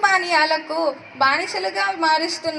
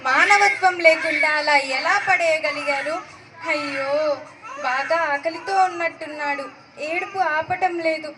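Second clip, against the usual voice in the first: put-on tearful, raised cries over an abandoned baby; distressed crying woman. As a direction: choke up with pity and alarm. (ఏడుస్తూ ఆందోళనగా మాట్లాడే స్త్రీ)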